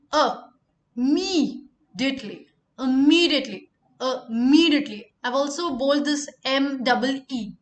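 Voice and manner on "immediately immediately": Immediately with the weight on the mee; Immediately as ih-MEE-dee-ut-lee; stress on me. Shown as a demonstration. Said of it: "emphasis should be on M double E".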